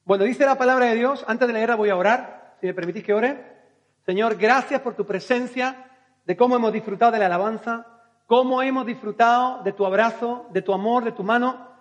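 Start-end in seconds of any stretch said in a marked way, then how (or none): 4.0-11.7 prayer. Acted. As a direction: pray it with open devotion. Leads a prayer. (oración sincera y pausada)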